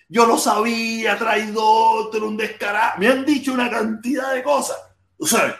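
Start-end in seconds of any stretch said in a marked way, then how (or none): 0.1-3.0 mock angry comments. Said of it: "Eso ha llovido de".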